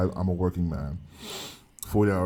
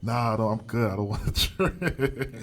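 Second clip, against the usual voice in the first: retold laughing refusal; slower than usual. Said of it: "She was like".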